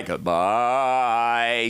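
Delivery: long goodbye sliding down to normal pitch; slow mock farewell in a normal register; drawn-out farewell. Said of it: "She said it every possible way".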